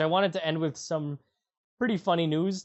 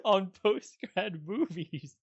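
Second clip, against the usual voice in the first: announcer voice; 4 semitones higher, slower than usual. Acted. Show sign-off announcer voice.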